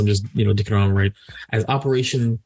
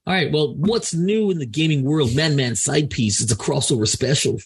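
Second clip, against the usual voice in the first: podcasting voice; 2 semitones higher than usual. Shown as a demonstration. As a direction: announce the segment like a radio host. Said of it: "I love my podcasting voice".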